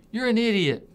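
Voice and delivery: a passerby shouting an insult, hammed up; mock yell. Stranger on the street yells at you, mock yell. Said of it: "somebody yells at you".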